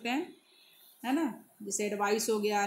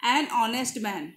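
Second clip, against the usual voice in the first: slow, careful reading of the example; much slower than usual. Shown as a demonstration. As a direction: read each word slowly for the class. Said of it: "यहाँ पर आप कहोगे".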